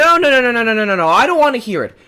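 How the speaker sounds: loud, rapid stream of no's; fed-up rapid no's; angry refusal. Acted. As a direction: shut them down loudly. Angry owner ordering them out.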